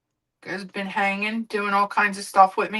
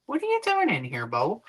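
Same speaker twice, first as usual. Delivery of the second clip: pet talk; 2 semitones higher, 4 dB quieter than usual. Real, not acted. Talking to the pet.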